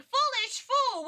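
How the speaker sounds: high, drawn-out mock scorn; Francesca. Streamer recalling whip-wielding girl's catchphrase, mock scornful. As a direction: hurl it like a haughty cartoon villainess. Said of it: "she was also saying".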